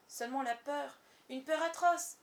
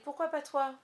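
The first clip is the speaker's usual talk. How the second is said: higher and much louder, urging; urgent; 6 semitones higher, 8 dB louder than usual. A narrator's reading. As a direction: push her to go. Peter presse Wendy. (Peter presse Wendy, fort et aigu)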